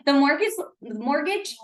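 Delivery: chewing gum. Real, not acted. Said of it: "I have gum in my mouth".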